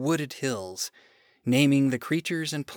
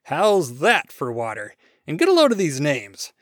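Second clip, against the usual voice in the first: louder, boastful God; proud God; 7 dB louder than usual. Acted. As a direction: brag about your rivers. God boasts of his rivers.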